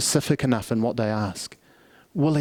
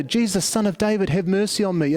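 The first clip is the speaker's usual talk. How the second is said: raised cry, pitched higher; yelling louder; 3 semitones higher than usual. Retold or imitated. Beggar yelling over the hushing crowd, insistent cry. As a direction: call out again, refusing to be hushed. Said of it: "keeps yelling out all the louder".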